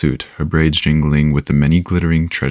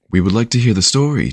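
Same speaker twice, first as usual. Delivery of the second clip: high, singsong chirp; bright youngster's voice, pitched up; chirpy songbird; 8 semitones higher than usual. A narrator's reading. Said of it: "chirped in a songbird voice".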